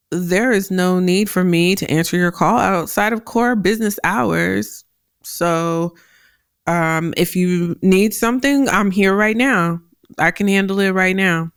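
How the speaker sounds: even, composed, businesslike reply; matter-of-fact. Retold or imitated. Junior employee answering manager about after-hours calls, matter-of-fact. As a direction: state the boundary calmly, no emotion. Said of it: "he was just very matter of fact".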